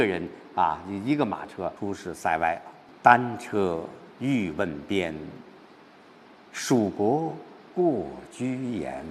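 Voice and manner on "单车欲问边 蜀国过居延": slow, restrained, telling recitation with long pauses; 郁闷地朗诵. Shown as a demonstration. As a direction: lay out the lonely journey slowly. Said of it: "开始的心结有点郁闷". (略带郁闷、缓缓交代的朗诵)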